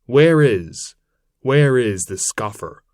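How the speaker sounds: loud, furious call of an enraged centaur; hunting angrily for the scoffer; raging shout. A narrator's reading. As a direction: bellow it out in fury. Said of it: "a centaur full of rage come crying out".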